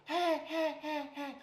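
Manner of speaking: high, sharp hey hey like a hen; hen quack call. Retold or imitated. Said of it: "I hit her with a".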